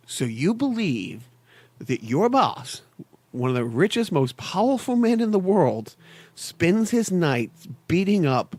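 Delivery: a hint of a cool, unbothered executive calling a bluff; calm, menacing Lucius Fox. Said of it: "and says".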